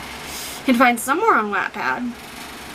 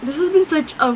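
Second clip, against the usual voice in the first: slow, choked-up voice on the edge of crying; real emotion, barely keeping it together; holding back tears; 3 semitones higher than usual. Real, not acted. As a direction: fight the tears as the words come out. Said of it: "you can hear my fucking tears in my voice".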